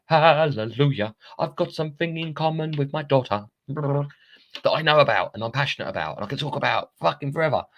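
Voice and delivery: high-pitched, elated re-enactment; jubilant hallelujah. Retold or imitated. Retells overjoyed reaction to daughter's interest.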